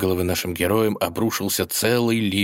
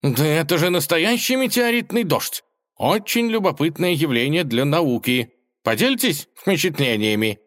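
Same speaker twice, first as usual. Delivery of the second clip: high, eager scientist voice; an enthusiastic professor; cat marvels at the meteors, high and eager; excited scholar cat; 8 semitones higher than usual. Acted.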